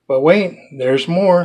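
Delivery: hyped-up TV salesman voice; infomercial pitch. Pretend. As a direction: sell it like a late-night infomercial. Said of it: "Sounds like an infomercial".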